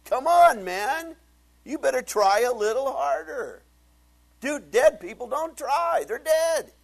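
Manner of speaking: loud, high, driving sermon shout; full-force preaching. Real, not acted. Preacher shouting to his congregation about dead people, loud and high. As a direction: hammer it home to the congregation.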